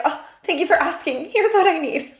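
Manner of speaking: put-on grateful tiny child finally heard; lightly voiced happy little kid; sweet little child. Sweet inner child answering.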